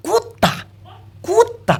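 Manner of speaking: very high, stretched mimicry; high-pitched mock name-calling; mocking quote. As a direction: throw the insult up high. Mimics insulting names people use.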